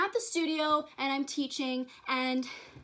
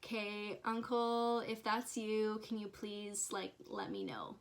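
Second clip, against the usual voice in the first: much softer, asking under her breath; inner thought, hushed; 2 semitones lower, 7 dB quieter, slower than usual. Retold or imitated. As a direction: barely voice it, as if only thinking. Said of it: "just thinking this because I didn't wanna say it out loud".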